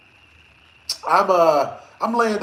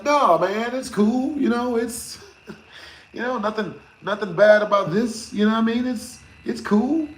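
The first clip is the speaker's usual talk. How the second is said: laid-back guy; 3 semitones higher than usual. Acted. Voicing a casual customer.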